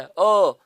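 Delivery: अ drawn out, as in bird; long vowel. Shown as a demonstration. Teacher repeats the sound from bird, long vowel अ. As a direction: hold अ as a long central vowel. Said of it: "long vowel sound है".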